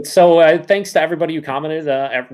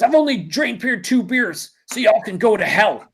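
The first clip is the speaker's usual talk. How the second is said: reading comment aloud; 7 semitones higher, slower than usual. Retold or imitated. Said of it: "Red Beard says".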